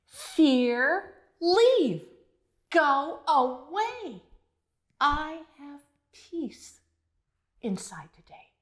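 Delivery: slow, drawn-out chant; slow mantra. Shown as a demonstration. Leading children in the mantra, slowly. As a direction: stretch each word out for the kids. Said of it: "Can you say it with me?".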